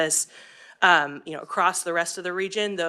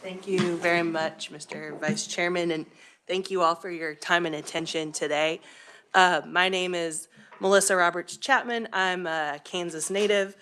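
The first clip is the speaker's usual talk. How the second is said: slightly out of breath. Real, not acted. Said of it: "if I sound like I'm panting".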